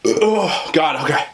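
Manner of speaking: talking through hiccups; hiccuping between words. Real, not acted. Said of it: "I'm getting hiccups".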